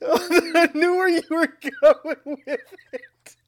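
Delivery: high breathless whisper through laughter; whispered laughing. Real, not acted. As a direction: wheeze the words out laughing. Laughing fit during intro.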